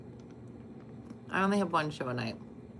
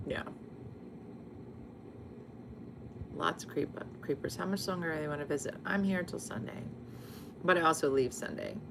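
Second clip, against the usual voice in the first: whispering on the phone; 7 dB quieter than usual. Real, not acted. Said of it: "why are you whispering?".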